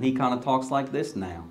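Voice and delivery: lightly imitated Oklahoma accent. Pastor imitating a friend from New York, Oklahoma accent. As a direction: put on a New Yorker's picked-up Oklahoma accent. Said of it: "spent time in Oklahoma".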